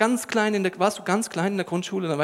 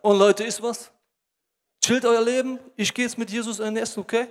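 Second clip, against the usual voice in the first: acted cocky nonchalance, slightly raised pitch; lightly voiced show-off; smugly enjoying it; 3 semitones higher than usual. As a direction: brush off the crowd, savoring the moment. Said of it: "genießt den Moment".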